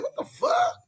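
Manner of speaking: sudden high squeak of disbelief; incredulous squeal. Real, not acted. Ranting vlogger to his haters, a high incredulous squeal. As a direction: yelp it up high, can't believe it.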